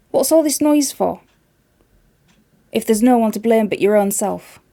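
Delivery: a touch of a mother scolding; mother's voice. Acted. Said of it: "said the mother".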